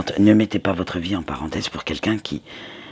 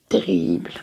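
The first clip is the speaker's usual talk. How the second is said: high squeak; 12 semitones higher than usual. Real, not acted. Repeats the word terribles.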